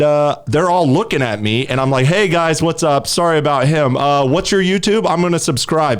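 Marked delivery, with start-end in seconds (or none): 2.1-6.0 higher-pitched, chummy let's-be-friends greeting; mock friendly approach. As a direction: play the overly friendly peacemaker. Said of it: "went the whole, like, let's be friends".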